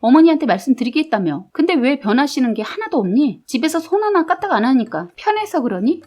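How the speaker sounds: mildly heated scolding of the husband; angry scolding. Retold or imitated. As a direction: snap at the husband, understated. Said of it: "제가 화가 나서 뭐라고 했습니다".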